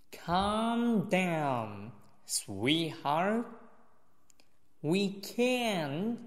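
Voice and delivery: slow model reading, stopping after each phrase. Shown as a demonstration. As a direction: lift the key words, leave long pauses. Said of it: "再来一遍". (慢速示范，停顿分明、重点词声调提高)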